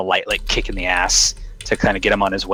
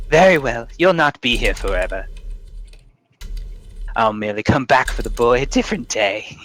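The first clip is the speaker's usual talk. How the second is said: sly crone; 2 semitones higher than usual. Acted. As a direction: promise to come back, smugly. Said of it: "she says".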